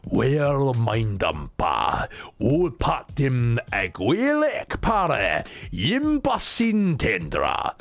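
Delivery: put-on slow, stumbling recital of old verse; Old English reading. Shown as a demonstration. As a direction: drag out every foreign syllable. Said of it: "before I so rudely interrupted".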